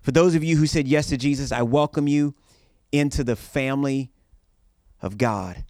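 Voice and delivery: loud rallying call to the crowd; rally speech. Acted. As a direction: whip the crowd into cheering. Rallying congregation to cheer.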